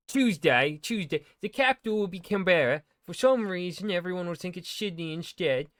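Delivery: bad, loud mock British accent; shitty British accent. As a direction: ham up a British voice. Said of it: "I will do instead a, uh, shitty British one".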